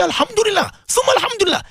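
high, exultant cry of praise; joyful praise. Retold or imitated. Echoing the crowd's praise in a high exultant cry. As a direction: lift it up like a delighted crowd. People praising wealthy Muslims.

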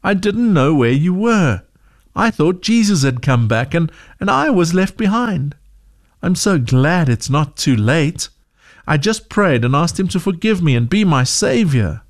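a hint of a shaken child finally safe; relieved girl. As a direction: daughter to mom, mildly relieved. Relieved girl tells Mom.

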